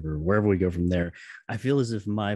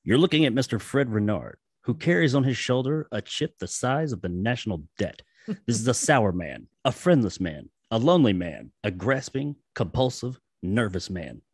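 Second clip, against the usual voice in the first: narration read. Acted. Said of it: "I'll let you read it out there".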